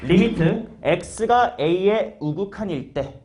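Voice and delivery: slow, spaced-out reading of the notation; teacher slowly modelling how to read it; demonstrated reading. Shown as a demonstration. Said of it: "이렇게 읽어요".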